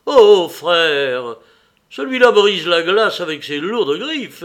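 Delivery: loud, rising furious tirade; furious rant. A narrator's reading. Little man raging at the tall stranger, loud and furious. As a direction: rage at the stranger, building to a shout. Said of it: "me regarda furieusement".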